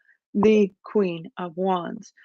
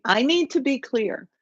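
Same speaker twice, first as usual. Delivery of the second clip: higher-pitched mimicry of a friend; imitating Gemini friend; 5 semitones higher than usual. Reader quotes a Gemini friend's catchphrase, imitating her higher voice. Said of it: "she talked like this".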